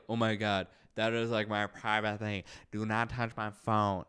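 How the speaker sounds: lightly put-on Chinese accent; mock Chinese accent. Imitating people guarding their phones, in a mock Chinese accent. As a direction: slip into an exaggerated Chinese accent. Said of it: "I'm doing a Chinese accent".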